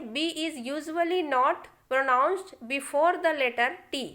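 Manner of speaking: very slow dictation pace; slow rule reading. Shown as a demonstration. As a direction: spell out the rule slowly for students. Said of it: "rule टू क्या कहता है". (धीरे धीरे नियम बोलना)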